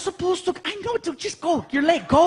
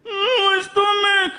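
put-on high, slow, whimpering little boy; kid whimpering; 11 semitones higher, 4 dB louder than usual. Dad voicing his sick son whining about his stomach, high and slow. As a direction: whine it like a sick kid near tears.

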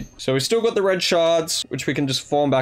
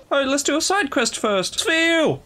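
much higher, gleeful; excited squeal; 12 semitones higher, slower than usual. Real, not acted. Player thrilled to start a side quest, squealing. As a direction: shriek with delight at the find.

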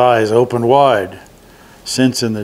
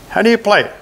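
high goblin voice; sly high goblin prodding; horned goblin nudging Herschel to light candles; third goblin voice; 9 semitones higher, faster than usual. A narrator's reading. Goblin interested in dreidel.

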